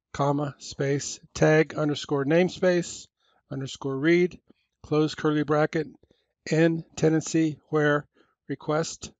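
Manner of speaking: slow code dictation, symbol by symbol; dictating. Shown as a demonstration. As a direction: spell out each symbol carefully. Reads out a policy statement.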